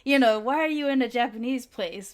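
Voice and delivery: mock-furious grandma at the Korean waiter; angry grandma. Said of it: "she'll go like".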